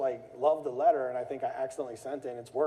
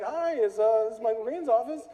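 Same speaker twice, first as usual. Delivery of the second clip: much higher, a bit louder demanding; mock irate caller; 10 semitones higher, 5 dB louder than usual. Caller demanding the office, hammed-up irritation. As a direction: barely hold the anger in.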